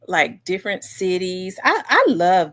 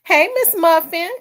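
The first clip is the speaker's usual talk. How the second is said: excited hello; 10 semitones higher, 7 dB louder than usual. Real, not acted. Greets viewer joining stream.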